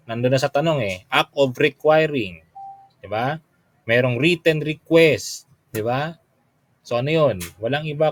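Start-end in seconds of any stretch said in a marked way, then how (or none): 1.1-2.4 slow, with requiring leaned on; slow stress on requiring. Shown as a demonstration. Teacher repeating the clue to the class, slow and stressed. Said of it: "nandun na yung clue eh". 3.9-5.5 slow, with written leaned on; slow stress on written. Shown as a demonstration. Teacher showing the class where the clue is, slow with written stressed. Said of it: "nandun na yung clue eh".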